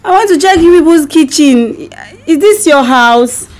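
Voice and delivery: puzzled stranger in someone's house; amnesiac confusion. Pretend. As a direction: sound lost and unsure. Wife fakes amnesia prank call.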